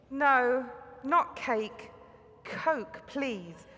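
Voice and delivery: a touch of strained patience, Coke stressed; patient but insistent, spelling it out; holding back frustration. Retold or imitated. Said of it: "desperately trying hard not to get frustrated".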